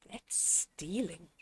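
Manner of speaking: a soft, solemn warning; hushed, grave. Acted. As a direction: say it quietly, gravely serious. Disapproving of stealing.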